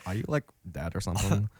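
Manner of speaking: lightly put-on valley girl accent. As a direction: ask it like a mild valley girl. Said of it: "talk like a valley girl".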